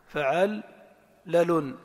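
فعلل very slowly as fa'al...lalun; vocal chunking. Shown as a demonstration. Teacher urges relying on sound, slowly chunked. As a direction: split فعلل in two equal beats. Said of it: "حاول تعتمد دائمًا على التنغيم الصوتي".

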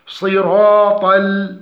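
"صراط ال-" with the lam darkened after ta; heavy lam error. Shown as a demonstration. Teacher demonstrates the error, thick lam in صراط ال-. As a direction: slowly carry the ta's heaviness into "ال-". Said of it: "تفخيم ال".

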